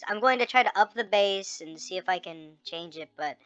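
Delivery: sped-up squeaky chipmunk voice; helium voice. Real, not acted. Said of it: "I'm going to keep the chipmunk voice".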